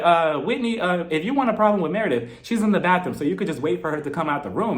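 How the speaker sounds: understated, even-voiced imitation of calm. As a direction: explain it evenly, without any heat. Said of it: "she said it to her calmly".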